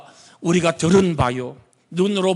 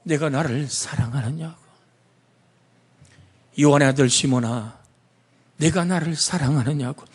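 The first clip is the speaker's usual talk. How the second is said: gentle. Acted. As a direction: ask it gently, close to his ear. Jesus's question asked gently.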